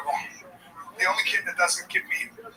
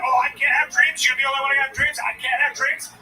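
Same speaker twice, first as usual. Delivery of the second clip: put-on whiny teen; 2 semitones higher, 3 dB louder than usual. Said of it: "he's like".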